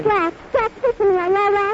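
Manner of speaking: high, loud and frantic. Acted. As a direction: call out in panic. Mary fears Jack shot.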